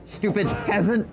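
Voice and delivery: shaking with anger. Pretend. King raging at peasants.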